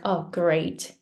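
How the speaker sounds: understated sarcasm, "great" let drop; sarcastic. Shown as a demonstration. Teacher giving learners an example of English sarcasm, sarcastic. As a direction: say it as if it's bad news. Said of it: "it's really difficult to understand sarcasm".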